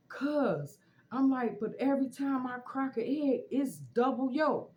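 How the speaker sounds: loud, high-pitched wail of complaint; mock bawling, pushed high and loud; retold crying. Pleading with cousin about double-yolk eggs, mock crying. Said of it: "And I'm crying".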